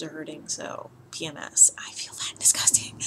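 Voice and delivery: whisper. Real, not acted. Confiding aside.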